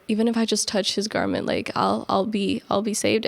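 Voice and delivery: soft, quick and hushed, almost to herself; hushed plea. Retold or imitated. Woman reaching for his garment, hushed and hopeful. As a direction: murmur it like a secret hope.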